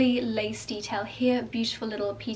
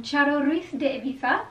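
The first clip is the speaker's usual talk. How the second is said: put-on a playful stab at a Spanish accent on the brand name; 3 semitones higher than usual. Vlogger naming the brand for viewers in a light Spanish accent.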